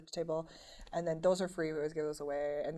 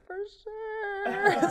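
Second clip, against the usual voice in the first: excited; 8 dB louder than usual. Retold or imitated. Starstruck reply to singer.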